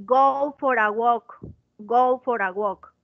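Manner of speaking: "go for a walk" with the R of "for" joined to "a"; linking. Shown as a demonstration. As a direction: link "for a" into one smooth sound. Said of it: "la R se conecta con la A".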